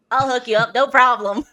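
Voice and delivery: laughing. Real, not acted. Laughing, redoing the stumbled offer.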